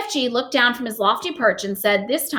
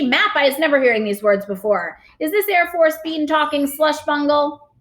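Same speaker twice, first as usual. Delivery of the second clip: indignant giant; 6 semitones higher, 3 dB louder than usual. Acted. BFG indignant at jargon.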